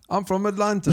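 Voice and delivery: high mock Atlanta voice; comic Southern-accented echo. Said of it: "Same thing in the South".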